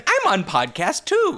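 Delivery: slow, lightly voiced dog; dog's voice. Voicing the restless dog on the podcast, lightly put on. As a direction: speak up slowly for the dog. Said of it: "He's like, he's like".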